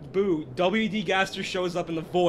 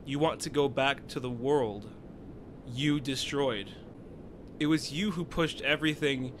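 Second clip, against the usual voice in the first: villain voice; 5 semitones lower, 6 dB quieter than usual. Acted. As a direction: intone it like a cold dark child. Reading villain text aloud.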